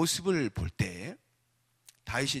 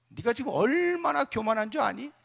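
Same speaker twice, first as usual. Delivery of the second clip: higher-pitched, mild scolding; lightly acted older-brother rebuke; reproachful rebuke; 8 semitones higher than usual. Eldest brother tells David he is arrogant, mildly scolding. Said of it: "책망을 하고 있는 것입니다".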